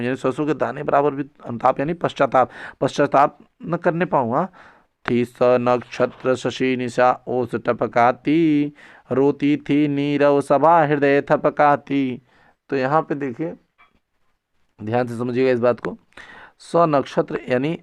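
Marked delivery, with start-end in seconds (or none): 5.1-12.2 slow, drawn-out chanting of verse; verse recitation. Acted. Teacher recites the grieving assembly verse to students, slow recitation. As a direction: stretch each line out in measured recitation.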